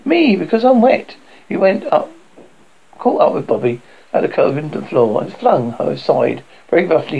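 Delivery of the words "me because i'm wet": higher, insistent acted shout; insist, calling out with restraint; mild shout. A narrator's reading. Peter claiming the dangerous job, higher mild shout. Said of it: "he shouted".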